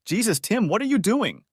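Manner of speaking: high, startled cry of the wife; high-pitched wife gasping at her husband; alarmed wife. Acted. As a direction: voice her shocked at the sight of him. Wife's alarmed question.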